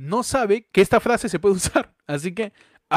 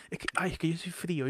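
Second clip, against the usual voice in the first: mock whiny quote; 14 dB quieter than usual. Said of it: "la gente diga".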